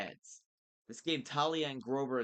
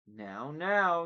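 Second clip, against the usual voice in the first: loud, raised-pitch warning; 6 semitones higher, 9 dB louder than usual. A narrator's reading. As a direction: cut in to warn the boy off. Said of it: "Doctor Thorne warned".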